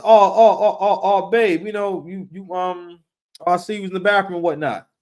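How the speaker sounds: loud flustered oh-oh-oh, breaking into a laugh; flustered girlfriend. Retold or imitated. Girlfriend caught out by x-ray vision, flustered and laughing. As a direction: sputter it out, embarrassed and laughing.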